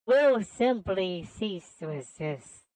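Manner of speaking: understated villain menace; menacing villain. Acted. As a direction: draw out the threat, then drop it. Voices the game's villain.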